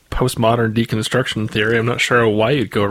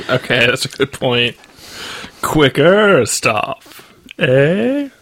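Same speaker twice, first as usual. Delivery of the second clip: talking with a full mouth; cheeks stuffed full; 3 semitones higher, slower than usual. Real, not acted. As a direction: speak through a mouthful. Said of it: "why my mouth is full right now".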